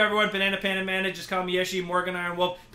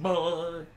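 drawn-out comic "bwoing"; silly stretched sound effect; imitated boing noise. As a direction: mimic a cartoon spring noise. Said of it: "It makes that noise".

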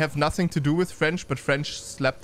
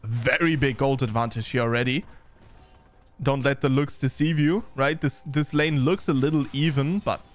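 lightly animated esports commentary; game caster keeping up with the action; live play-by-play; 3 semitones higher than usual. Real, not acted. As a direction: call the team fight as it unfolds.

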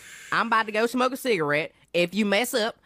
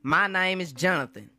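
strained manager voice. Acted. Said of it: "You sound like somebody pulling your voice box".

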